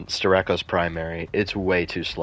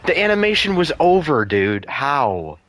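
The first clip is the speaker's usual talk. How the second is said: raging gamer; 5 semitones higher than usual. Real, not acted. Complaining about unfair hit.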